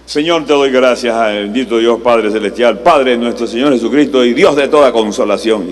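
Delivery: mock showy prayer voice; hammed-up churchy prayer; pompous public prayer. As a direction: parody an ornate prayer speech. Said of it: "hacen un discurso para que la gente los oiga".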